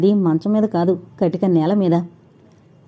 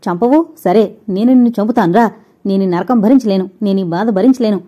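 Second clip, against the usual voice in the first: louder, furious and desperate; angry outburst; 4 dB louder than usual. Acted. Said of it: "తోకతొక్కిన తాచులా చప్పున లేచి". (కోపంగా, గట్టిగా అరుస్తూ)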